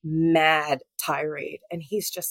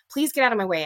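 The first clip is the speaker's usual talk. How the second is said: pleading, pitched up and pressing; an urgent, raised plea to get past; 4 semitones higher, much faster than usual. Retold or imitated. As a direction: beg him to move, insistent. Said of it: "Repeating myself".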